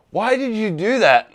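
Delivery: high, slow, incredulous question; mock disbelief from the polish company; imitating a baffled detailer; baffled sponsor. Retold sponsor reaction.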